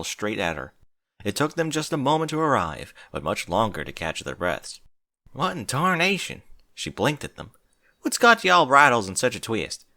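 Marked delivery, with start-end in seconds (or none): 5.3-9.8 puzzled Applejack. Acted. Applejack puzzled by panting friends.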